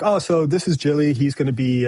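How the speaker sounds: lightly voiced executive patter; imitated executive. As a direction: play a chatty exec introducing someone. Imitates exec making breezy introduction.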